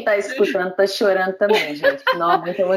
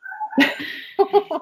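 breathy laugh. Real, not acted. Moved, laughing.

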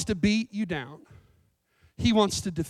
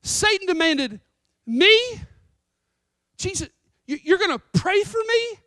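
higher-pitched, stunned disbelief; incredulous Peter; 7 semitones higher, 4 dB louder than usual. Acted. Peter reacting to Jesus' promise of prayer, incredulous. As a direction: play a disciple baffled by what he hears. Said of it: "I kinda hopped into Peter's skin".

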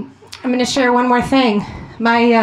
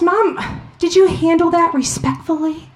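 a hint of a prim little girl, higher; lightly voiced little daughter; 6 semitones higher than usual. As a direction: gently imitate a child correcting her mom. Daughter quoted scolding her mom.

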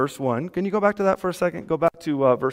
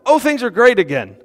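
mock relief; 5 semitones higher, 4 dB louder than usual. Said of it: "It starts out".

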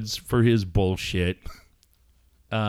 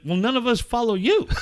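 high mock retort; 9 semitones higher than usual. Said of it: "I was like".

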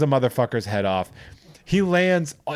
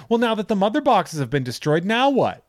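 much higher fretful question; whiny Desaad; 9 semitones higher than usual. Retold or imitated. Host imitating Desaad asking Darkseid, much higher. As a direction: whine it like a sniveling aide.

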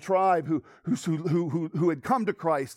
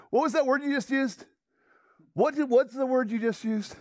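the same eager question, still raised and urgent; excited outburst; 6 semitones higher than usual. Retold or imitated. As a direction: press him again, half laughing with discovery. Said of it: "Peyton jumped to his feet".

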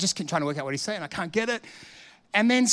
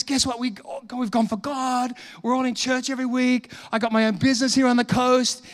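higher-pitched eager telling; excited news; 5 semitones higher than usual. Retold or imitated. Convert telling the preacher his news, mildly excited. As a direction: imitate a man bursting with news. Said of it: "And he's so excited".

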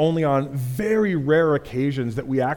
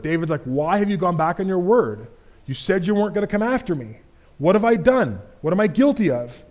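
raised, higher pleading voice; David pleading with the king, higher and raised; 4 semitones higher than usual. Acted. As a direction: plead your case up the hill.

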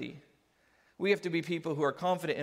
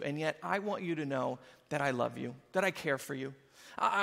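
gentle; 3 semitones lower than usual. Retold or imitated. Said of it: "As I come and I say".

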